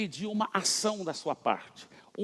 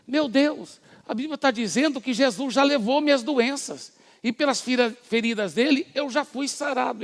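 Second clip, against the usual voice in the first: realization; 7 semitones higher than usual. Retold or imitated. Woman realizes she is healed.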